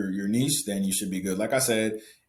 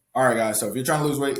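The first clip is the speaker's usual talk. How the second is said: social-media video host delivery, slightly higher pitch; 3 semitones higher, 4 dB louder than usual. Showing the voice used when making reels, slightly higher-pitched voice. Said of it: "my tonality when I'm doing the reels is like ... it's a little bit higher".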